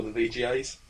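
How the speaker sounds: muffled by a hand over the mouth. Real, not acted. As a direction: talk through a covering hand. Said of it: "I put my hand over my mouth there".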